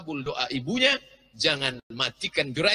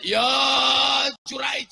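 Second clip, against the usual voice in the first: high call to her son; mother calls out for her son; 9 semitones higher, 4 dB louder than usual. Acted. (ibu memanggil anaknya dengan suara tinggi)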